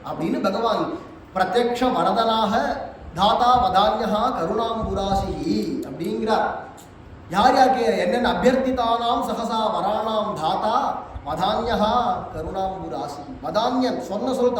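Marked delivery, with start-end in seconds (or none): 1.3-13.2 slow, measured Sanskrit recitation; verse recitation. Shown as a demonstration. Preacher reciting the verse on the generous Lord, slow. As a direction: recite each word slowly and deliberately.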